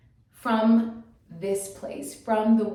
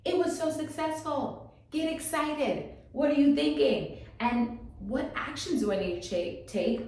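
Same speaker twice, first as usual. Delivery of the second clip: higher, lively mock pep talk from her future self; excited pep talk; 5 semitones higher than usual. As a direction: cheer yourself on like your future self. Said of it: "future Tina was like".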